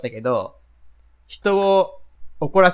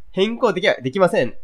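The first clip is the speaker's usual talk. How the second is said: curt interrupting clerk; 2 semitones higher than usual. Retold or imitated. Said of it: "もう食い気味で".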